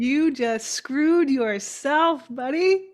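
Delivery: slow taunting. Acted. Teasing a wrong answer.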